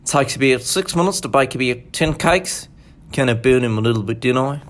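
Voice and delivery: a lightly done Kiwi accent; a casual New Zealand accent; a hint of a Kiwi accent. Shown as a demonstration. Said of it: "New Zealand".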